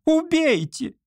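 very high shrieked cry; hysterical scream. A narrator's reading. Olga shrieking her final plea at the artist. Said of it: "крикнула Ольга Ивановна".

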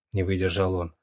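usual speaking voice

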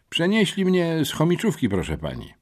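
put-on cheeky new kid; boy's voice. A narrator's reading. Boy answering. (nowy chłopak, wysoko)

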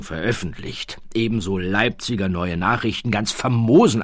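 bow and scrape in clipped military tone; fawning baron. Acted.

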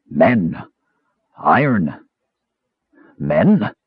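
low raspy tree creature voice; raspy bass voice. A narrator's reading. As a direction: growl it low like an ancient tree. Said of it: "In a raspy, bass voice".

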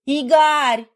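high, loud outraged cry; wife catching her husband's glance; shouting his name. A narrator's reading. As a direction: scream his name in protest. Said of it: "закричала Майка".

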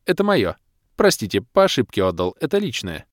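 snatch it back, mortified; flustered doctor. Acted. Doctor embarrassed, reclaims scroll.

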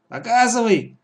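high, sharp order; imperious one-word command. Acted. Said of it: "приказала она".

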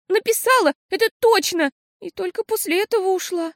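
put-on desperate girl. A narrator's reading.

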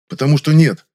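loud, annoyed snap; cutting off her argument, annoyed; irritated. A narrator's reading. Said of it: "раздражённо сказал я".

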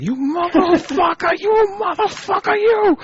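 very high squeaky mock yell; squeaky cartoon voice. A man voicing his genitals squealing at him. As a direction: voice the body parts as squealing cartoon critters. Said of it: "My cock and balls are like".

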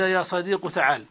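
صديق ends in a short u; dhamma ending. Shown as a demonstration. Teacher listing the dhamma form, dhamma ending. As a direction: close صديق on u, no ya. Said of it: "حذف الياء وضم آخر المنادى".

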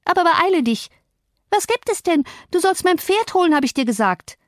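put-on high, haughty girl's voice, impatient; impatient spoilt girl. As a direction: snap at him to hurry up. Spoilt girl commanding a servant. (hohe, ungeduldige Mädchenstimme)

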